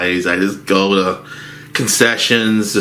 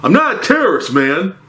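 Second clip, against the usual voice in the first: imitating the yeller; 10 semitones higher, faster than usual. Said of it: "I'm like".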